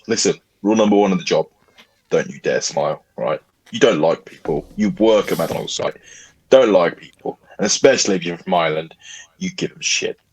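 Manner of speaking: low, gruff mock manager; stern boss voice. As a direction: lay down the rules gruffly.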